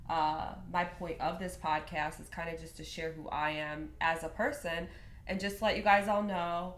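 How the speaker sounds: blocked nose from a sinus infection; stuffy nose. Real, not acted. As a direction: talk through a stuffed-up nose. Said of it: "so I'm a little stuffy in my nose".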